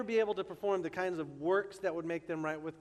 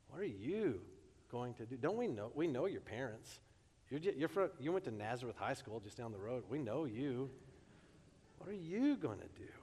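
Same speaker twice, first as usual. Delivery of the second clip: a mild, understated hint of indignation; indignant crowd; 2 semitones lower, 4 dB quieter than usual. Crowd dismissing Jesus as the local boy, mildly indignant. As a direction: scoff lightly, as if they know him too well. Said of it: "with indignation in their voice".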